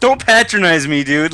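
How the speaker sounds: mock indignation. Loser refusing the winner's sympathy, mock indignation. Acted outrage at an apology.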